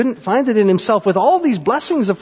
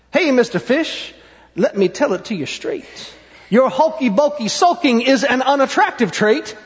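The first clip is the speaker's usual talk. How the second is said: straight-talking octopus. Acted. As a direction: lightly scold a sulky friend. Octopus scolds fish.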